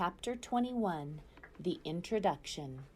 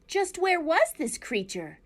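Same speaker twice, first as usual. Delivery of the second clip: higher, louder demanding fox; 9 semitones higher, 5 dB louder than usual. A narrator's reading. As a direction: press the owl for where. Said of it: "said Fink the fox".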